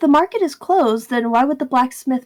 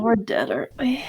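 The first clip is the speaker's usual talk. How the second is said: whisper; 5 dB quieter than usual. Real, not acted. Player fears consequences.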